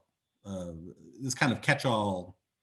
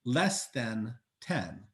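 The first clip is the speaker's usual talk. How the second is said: drawn-out question; 4 semitones higher, much slower than usual. Retold or imitated. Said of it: "they would say".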